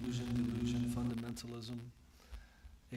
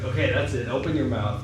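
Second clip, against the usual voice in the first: louder, lightly acted scolding mother; mock-stern mother; 5 dB louder than usual. Yashoda orders dirt-eating child to open up, mock-stern. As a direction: put on a fed-up mum's order. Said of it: "she's like".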